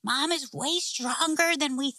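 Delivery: put-on high-pitched kids bursting to tell; excited boys. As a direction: imitate boys eagerly reporting big news. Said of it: "All three boys are instantly like".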